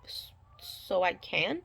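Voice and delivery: slow, hesitant whispered hope; hushed question. Retold or imitated. Pregnant patient timidly asks the doctor if she can eat, whispered.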